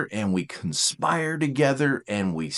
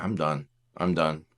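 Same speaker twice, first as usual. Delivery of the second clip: low, soft resignation; deflated and finished; fed-up withdrawal; 10 semitones lower, 6 dB quieter than usual. Acted. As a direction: give up quietly, pitch dropped. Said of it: "I'm just like".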